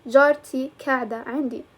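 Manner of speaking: جارتي قاعدة عندي with قاعدة opening on k; k sound in place of q in قاعدة; alternative dialect pronunciation. Shown as a demonstration. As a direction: say قاعدة with a k, as "kada". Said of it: "It depends on your accent".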